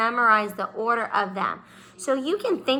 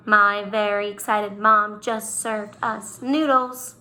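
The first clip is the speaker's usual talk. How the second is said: slow recital. Shown as a demonstration. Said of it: "Think of that saying and write it down".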